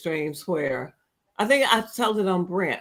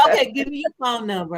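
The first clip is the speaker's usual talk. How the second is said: laughing imitation; 4 semitones higher, faster than usual. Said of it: "he said".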